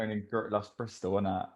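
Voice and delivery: mock Bristolian. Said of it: "'Cause you're near Somerset".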